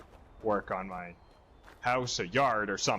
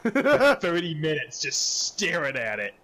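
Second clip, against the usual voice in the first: exasperated parent; 3 semitones higher, 4 dB louder, slower than usual. Retold or imitated. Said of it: "And I'm like".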